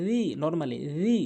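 রি as a slow "dhee"; tongue tip to teeth for রি, vowel held one beat; soft dhal, stretched. Shown as a demonstration. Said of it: "এক আলিফ টেনে উচ্চারণ".

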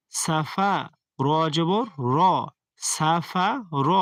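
সাফা with clean sin, heavy র; সিন ঠিক করে উচ্চারণ; recitation demo. Shown as a demonstration. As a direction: spell out সাফা র slowly. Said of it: "সিন জবর সা".

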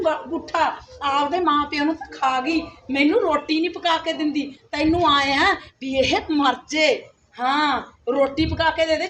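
a nagging, threatening stepmother; scolding stepmother. Acted. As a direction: berate the girl like a cruel stepmother. Stepmother berating the stepdaughter.

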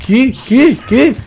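stunned what. Real, not acted. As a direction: yelp it in shock. Shock at game event. (qué incrédulo, agudo y fuerte)

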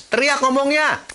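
loud, high rhetorical shout; mock shout. Shown as a demonstration. Coach asking if loud means shouting, mock yell. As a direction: yell the question as if that were right.

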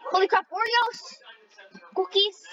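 high, slow delighted holy crap; surprised squeal. Real, not acted. Gamer spotting Oreos in the map, high surprised squeal. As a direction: gasp it out in a high, stretched voice.

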